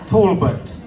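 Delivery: "Talbot" with first syllable like "tall"; demonstrated surname pronunciation. Shown as a demonstration. Contestant teaching host his surname, "Talbot" as TAWL-but. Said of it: "How do you pronounce your last name?".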